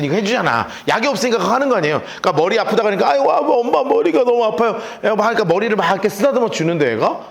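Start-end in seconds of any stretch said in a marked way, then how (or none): 3.1-4.8 put-on a child groaning that his head hurts; mock child's cry of pain.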